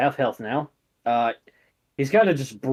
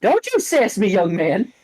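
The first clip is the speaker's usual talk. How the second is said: high, louder motherly rebuke; stern mom; 7 semitones higher, 4 dB louder than usual. Acted. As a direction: snap at the son like his mother. Mom scolding son.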